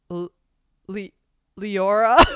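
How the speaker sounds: stammering through a laugh; laughing embarrassed. Retold or imitated. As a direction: fumble the name, cracking up. Embarrassed over own name.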